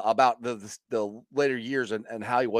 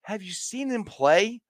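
slow emphatic; 7 semitones higher, slower than usual. Retold or imitated. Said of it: "I'm like".

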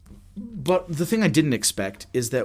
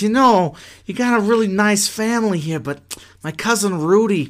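mock Italian mobster, louder and higher; God with Italian accent; 5 semitones higher, 4 dB louder than usual. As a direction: play a menacing mafioso with a hammy Italian accent. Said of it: "in his Italian accent".

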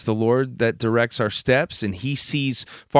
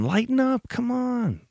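playful pleading; 13 semitones higher, 3 dB quieter than usual. Real, not acted. Answering critics of the joke.

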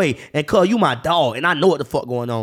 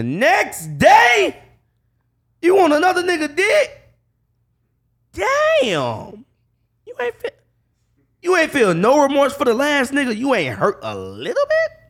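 wrestling promo; 9 semitones higher, slower than usual. Real, not acted. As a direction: preach it like a wrestler on the mic. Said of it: "this nigga cutting a promo".

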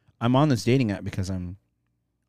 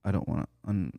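talking while chewing gum; words round a piece of gum. Real, not acted. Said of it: "I got gum in my mouth, so I can't speak properly".

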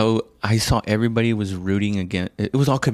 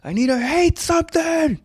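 gleeful hater voice. Pretend. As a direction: savor the hatred like a cartoon villain. Mock hater craving hate.

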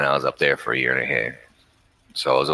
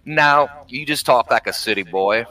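mimicking the girl's voice, pitched up high; high-voiced girl imitation; 8 semitones higher than usual. Imitating a Southern girl teasing him about sounding like the city. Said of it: "And she was like".

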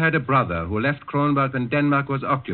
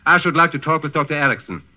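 firm insistence; 4 semitones higher, 5 dB louder than usual. Acted. Gestapo officer insisting on seeing doctor.

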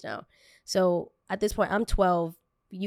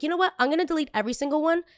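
retold sudden resolve; 8 semitones higher, much faster than usual.

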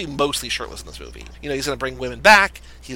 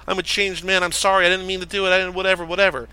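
higher-pitched pretend sobbing apology, little real crying; hammed-up plea in a raised voice; mock tearful pleading; 4 semitones higher, faster than usual. Defendant faking remorse to the judge in court, mock tearful. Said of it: "He's crying. He's sobbing. He's like".

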